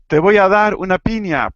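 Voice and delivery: a light playful threat, Te voy a dar una piña; mock threat. Teacher jokes about piña meaning a fist, mock threat. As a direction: jokingly threaten a punch with piña.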